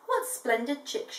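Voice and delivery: slow, proud admiring; mother emu admiring her new family; mild pride. Acted. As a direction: admire the chicks slowly with a touch of pride. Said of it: "she said proudly".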